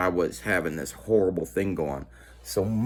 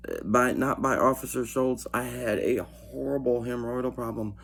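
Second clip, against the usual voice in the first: higher, emphatic denial to the officer; insistent protest; 4 semitones higher than usual. Retold or imitated. Inmate denies the accusation to Internal Affairs, higher and insistent. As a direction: push back hard but a bit amused.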